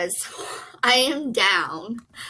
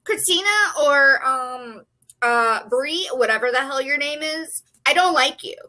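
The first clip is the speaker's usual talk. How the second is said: louder, scolding a book character; mad at a character; 3 dB louder than usual. Real, not acted. Reader scolding a book character she hates, mad and louder. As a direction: call her out with real annoyance. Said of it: "I'm so mad at you".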